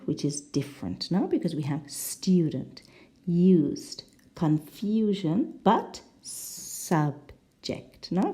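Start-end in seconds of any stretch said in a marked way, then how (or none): 1.9-5.6 "student", "used", "confusion" with a clear YOU sound; you vowel. Shown as a demonstration. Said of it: "the last one is you". 6.2-8.1 "subject" drawn out, with UH rather than YOU; different vowel. Shown as a demonstration. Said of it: "Can you hear?".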